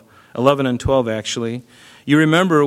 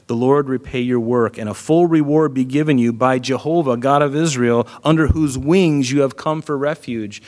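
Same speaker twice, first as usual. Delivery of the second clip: prophetic blessing. Retold or imitated. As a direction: declare the blessing with conviction. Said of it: "he prophesied over her when he said".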